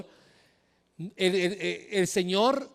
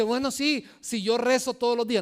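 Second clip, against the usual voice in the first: higher, defensive believer's retort; objecting believer; 4 semitones higher than usual. Retold or imitated. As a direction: protest lightly that you already pray. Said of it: "Entonces uno dice". (creyente que replica, voz más aguda)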